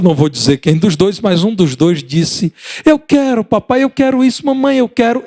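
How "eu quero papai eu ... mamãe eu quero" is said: put-on high pleading child begging; whiny child voice. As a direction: beg like a little kid wanting a toy. (criança implorando com voz aguda)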